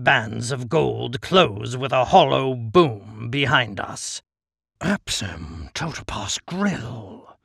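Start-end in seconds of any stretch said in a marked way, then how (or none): 4.8-7.4 low, slow, cunning Djinn voice; deep cunning Djinn. Acted. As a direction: purr it like a sly genie. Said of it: "The Djinn's voice is deep, cunning".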